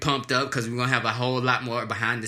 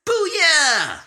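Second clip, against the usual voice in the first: loud, high cartoon battle cry; Cyborg voice; 13 semitones higher, 6 dB louder than usual. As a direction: yell it like Cyborg, badly. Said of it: "I didn't successfully sound like Cyborg".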